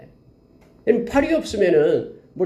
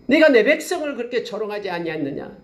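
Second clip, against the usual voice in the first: mildly stern, a bit higher rebuke; voice of God; 7 semitones higher than usual. Acted. God scolding Moab for mocking his people, mildly stern. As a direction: demand an answer from Moab. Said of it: "말합니다".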